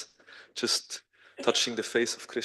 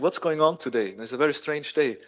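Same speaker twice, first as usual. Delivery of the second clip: higher-pitched, lightly acted puzzlement; baffled; 4 semitones higher, 3 dB louder than usual. Krishna reacts to second sudden crying, baffled. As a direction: wonder aloud at the oddness.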